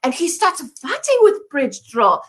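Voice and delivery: mock French accent. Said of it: "My accent is ambiguous".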